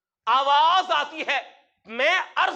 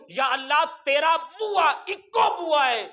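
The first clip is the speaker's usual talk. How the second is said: fervent cry. Retold or imitated. Old pilgrim crying out to God, fervent shout. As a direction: cry out that there is one door.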